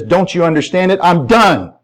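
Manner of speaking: lightly acted distraught wife; retold tearful outburst. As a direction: lift the pitch, insisting on being done. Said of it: "she's crying and she's weeping".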